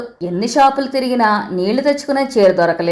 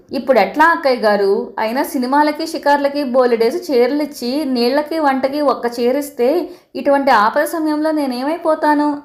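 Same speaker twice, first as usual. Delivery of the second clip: higher, pitiful complaint; 4 semitones higher than usual. Acted. Aunt pleads helplessly to mother, pitched higher. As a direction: plead helplessly to the elder sister. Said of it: "అంది దీనంగా".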